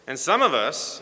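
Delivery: "some" leaned on, then left hanging; dramatic pause. Real, not acted. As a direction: set up "some of us" and hold back the rest. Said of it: "here we pause for dramatic effect".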